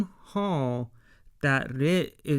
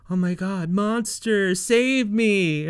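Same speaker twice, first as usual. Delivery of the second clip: mock panic; 5 semitones higher, 4 dB louder than usual. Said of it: "it turns into".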